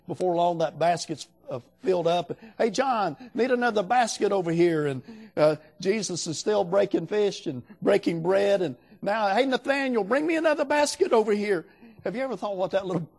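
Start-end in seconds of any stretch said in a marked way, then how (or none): 2.6-4.9 calling across, a bit higher and louder; Jesus calling a disciple for another basket, calling out. Retold or imitated. 9.3-11.7 called out high and loud; Jesus calling Nathaniel over the crowd, high and loud. Retold or imitated. Jesus calling for another basket.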